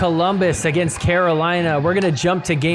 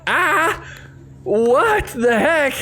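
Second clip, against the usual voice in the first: imitated shock; 10 semitones higher, much slower than usual. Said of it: "This poor fan is like".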